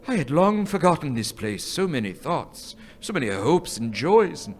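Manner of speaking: quiet, tearful remembering; choked-up memory. Acted. Scrooge moved to tears at his boyhood home, quietly. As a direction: hold back tears as old memories return. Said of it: "Your lip is trembling".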